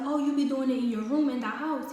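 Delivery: loud, high-pitched indignant dad; retold loud, incredulous scolding; imitated going off. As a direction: imitate dad outraged and raising his voice. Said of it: "He started going off".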